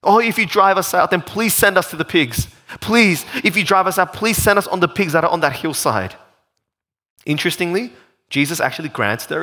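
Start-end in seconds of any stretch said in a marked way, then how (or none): 0.0-6.1 mildly imitated pleading; pathetic begging. Demons begging Jesus to send them into pigs, mock pathetic pleading. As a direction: plead like cowed demons, lightly acted. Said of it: "pathetically and weakly begging Jesus".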